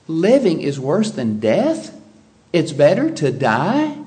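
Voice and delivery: rising, puzzled questions; mock disbelief, lifting at the end; incredulous questioning. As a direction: echo it back as a disbelieving question.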